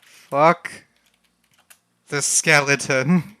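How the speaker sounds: halting, word by word with a long pause; drawn-out, hesitant dictation; slow typing-aloud. Real, not acted. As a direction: say it slowly as you type it.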